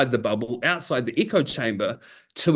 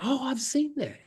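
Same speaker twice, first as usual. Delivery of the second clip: mock recognition; 10 semitones higher, 6 dB quieter than usual. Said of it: "And I'm like".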